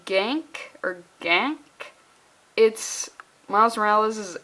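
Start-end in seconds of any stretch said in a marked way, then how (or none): 0.1-1.6 trying out "Gank or Gank" two ways, slowly; slow, questioning "Gank or Gank"; unsure pronunciation. Real, not acted. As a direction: test each "Gank" as a tentative guess. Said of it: "don't know if I'm pronouncing".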